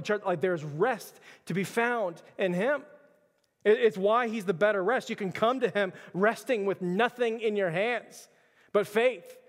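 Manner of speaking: insistent, measured preacher cadence; emphatic preaching. Acted. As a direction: press each repeated phrase on the congregation. Preaches repeated reassurance to the church.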